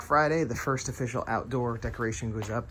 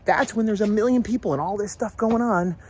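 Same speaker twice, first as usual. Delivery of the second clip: raised, louder frustrated rant; exasperated venting; 8 semitones higher, 6 dB louder than usual. Real, not acted. Parent venting about sudden crowds while decorating, loud exasperation. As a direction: complain with rising exasperation. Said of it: "now I vented to you".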